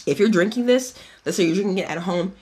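slightly winded, breathy talk; talking a bit out of breath. Real, not acted. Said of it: "I don't know why I'm out of breath".

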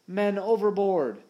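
high, drawn-out alarm shout. A narrator's reading. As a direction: cry out the alarm to the captain. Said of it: "Smee was on his feet shouting".

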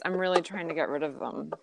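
quiet, hiccup-broken words; fighting hiccups while talking. Real, not acted. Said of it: "I, I have hiccups".

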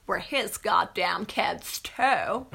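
put-on slow whispered child line; whispered movie line. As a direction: hiss it out slowly. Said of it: "I've done that thrice".

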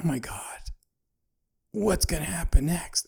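breathless whisper, caught up in the film; awed whisper. Retold or imitated. Viewer recalling the cliffhanger, awed whisper. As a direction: whisper it like gripped by the movie. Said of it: "in my mind, I'm going".

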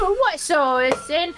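put-on half-successful British accent, breaking into laughter; exaggerated British attempt, laughing. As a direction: have a go at British, not quite landing it. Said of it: "try to do the British accent".

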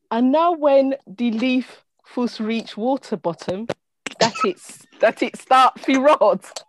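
slow, careful stab at Jamaican patois; halting amateur Jamaican accent; attempted Jamaican accent. Shown as a demonstration. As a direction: read out Jamaican patois word by word, not quite convincingly. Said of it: "you're gonna do a Jamaican accent or try".

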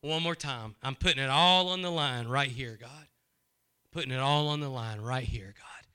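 low, hushed prayer, trailing off; a lightly voiced humble prayer; prayer of surrender. Shown as a demonstration.

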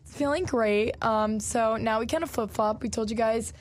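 lost voice, hoarse and rough. Real, not acted. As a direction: talk through a worn-out voice. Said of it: "Oh my gosh, I sound so different".

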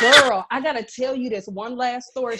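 squealing with excitement to share; excited outburst. Retold or imitated. Excited interruption to mom.

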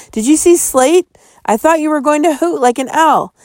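high, tense questions; spooked and keyed up; startled. A narrator's reading. Startled boy asks friend.

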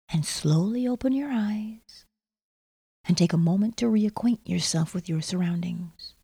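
ordinary delivery

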